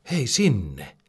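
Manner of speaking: a restrained storybook squeal; excited yell. A narrator's reading. Pete calls to his friends, lightly squealed yell. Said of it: "Pete kiljahtaa".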